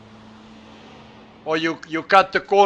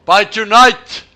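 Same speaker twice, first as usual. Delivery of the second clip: much louder, higher, rising on tonight; loud disbelieving rise on tonight; incredulous echo; 5 semitones higher, 11 dB louder, slower than usual. Real, not acted. Echoed with a rising retort.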